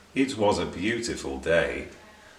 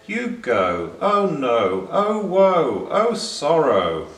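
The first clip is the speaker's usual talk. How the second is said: hammed-up wail, higher and louder; mock sorrow; 6 semitones higher, 6 dB louder, slower than usual. A narrator's reading. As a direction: lament theatrically. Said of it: "looked very sad and said".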